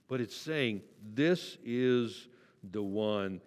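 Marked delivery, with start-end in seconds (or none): 1.1-3.4 slow, weighty divine pronouncement; solemn voice of God. Acted. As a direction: let each word land slowly, like heaven declaring. Quoting the voice from heaven.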